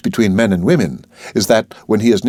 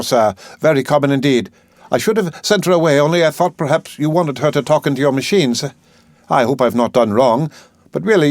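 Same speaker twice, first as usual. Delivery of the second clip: higher, prim and apologetic servant; a hint of a fussy housekeeper; lightly voiced, mildly worried maid; 5 semitones higher than usual. Housekeeper reports the visitor.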